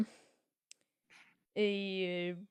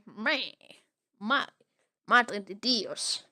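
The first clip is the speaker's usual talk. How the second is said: Spanish exclamation; slower than usual. Retold or imitated. Thief speaking Spanish.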